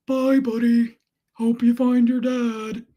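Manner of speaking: drawn-out, loud cartoon farewell; narwhal from Elf. Narwhal seeing Buddy off, put-on cartoon voice. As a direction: voice a cartoon sea creature, slow and held. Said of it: "narwhal in Elf".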